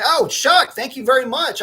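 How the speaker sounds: high, loud burst of thanks; light up and thank him loudly; excited thanks. Real, not acted. Thanking Chuck for his super chat, high excited greeting.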